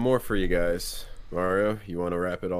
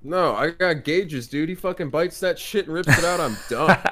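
excited; 8 semitones higher, 4 dB louder than usual. Real, not acted. Fearing an ear bite.

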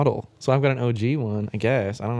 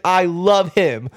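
swooning gush; 5 semitones higher, 4 dB louder, much slower than usual. Retold or imitated. Leah gushes about the singer.

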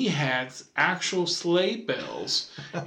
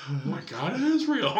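put-on childish awe. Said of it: "I'm sitting around going".

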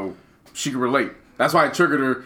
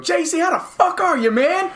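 mocking a white acquaintance. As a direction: ham up a gushing fake-friendly greeting. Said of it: "they always hit you up".

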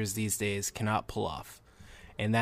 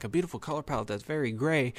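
quicker, softer mimicry of a doubting listener; skeptical echo; 2 semitones higher, 4 dB quieter, faster than usual. Film reviewer voicing listeners' doubt about gray visuals, mock skeptical. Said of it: "Now you're gonna be like".

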